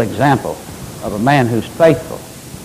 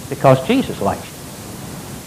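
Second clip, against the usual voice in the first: whispered slowly; hushed whisper; 2 semitones lower, 8 dB quieter, much slower than usual. Real, not acted. Tender aside to congregation.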